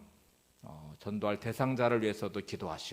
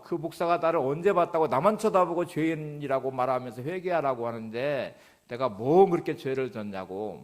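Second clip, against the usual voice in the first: retold anger; 3 semitones higher, 4 dB louder than usual. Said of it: "아내한테 막 화를 내면서".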